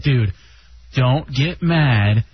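low, slow, measured talk-down; calming advice, retold. Friend telling a mad radio host to let it go, calming.

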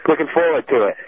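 slightly winded, catching breath. Real, not acted. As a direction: talk between breaths after walking around. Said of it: "I'm kinda out of breath now".

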